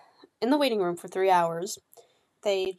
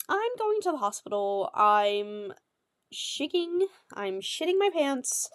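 panicked, scared; 2 semitones higher than usual. Retold or imitated. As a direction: voice jumping up in fear as she calls out of work. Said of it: "you could just hear it in my voice that I was not okay".

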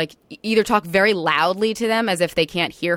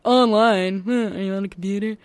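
puzzled questioning; 4 semitones higher, 4 dB louder than usual. Retold or imitated. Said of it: "people pick up on that".

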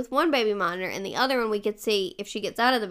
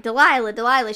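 calling out; 6 dB louder than usual. Retold or imitated. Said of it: "and I'm like".

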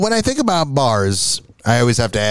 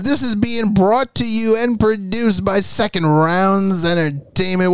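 correct tagline read; 8 semitones higher, slower than usual. Shown as a demonstration. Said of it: "what you were supposed to actually say was".

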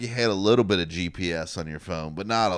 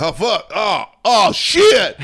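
high, loud panicked cursing; loud high panicked swearing; 12 semitones higher, 9 dB louder, much slower than usual. Retold or imitated. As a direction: curse in alarm, rising. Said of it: "they'd be like".

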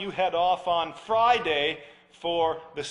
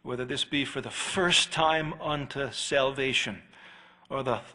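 closing prayer; 3 semitones lower than usual. Real, not acted. Pastor praying for the congregation after the sermon, reverent. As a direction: pray over the congregation reverently.

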